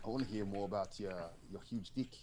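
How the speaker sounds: put-on South African accent. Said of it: "What you just did was South African".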